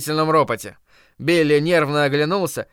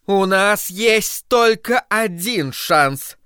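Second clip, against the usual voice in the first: higher, slow solemn proclamation; proclaiming; 6 semitones higher, much slower than usual. Acted. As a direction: announce it like a prophet. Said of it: "провозгласила миссис Кармоди".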